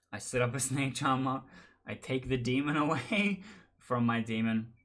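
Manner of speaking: amused, laugh breaking into the words; laughing while telling. Real, not acted. Storyteller revealing the twist to listeners, laughing while telling. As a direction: tell it through a small laugh.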